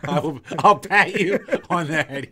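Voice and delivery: slow, laughing mock repeat. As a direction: echo his words back through a laugh. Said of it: "he says".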